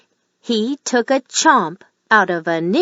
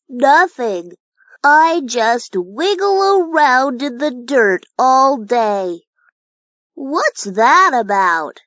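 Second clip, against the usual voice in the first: a lightly voiced, slightly higher worm grumbling; Ollie the earthworm; 4 semitones higher than usual. Ollie grumbles to himself about his boring life, lightly voiced and glum. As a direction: sigh through it like a bored little worm.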